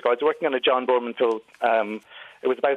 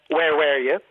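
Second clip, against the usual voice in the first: Irish accent; slower than usual. Shown as a demonstration. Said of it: "in some accents you get".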